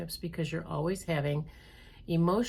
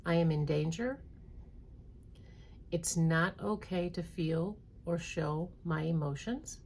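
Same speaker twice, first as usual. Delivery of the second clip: read slowly. Shown as a demonstration. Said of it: "I'm gonna read them slowly".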